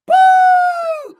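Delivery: sudden high loud boo; mock boo. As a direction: jeer it like a panto crowd.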